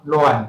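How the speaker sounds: “乱” as the literary reading of 两, second tone. Shown as a demonstration. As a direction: give “乱” as the reading pronunciation, tone two. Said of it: "读册音是念作".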